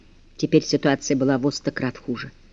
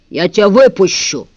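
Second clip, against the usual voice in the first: bark; 2 semitones higher, 5 dB louder than usual. Acted. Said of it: "рявкнул бас".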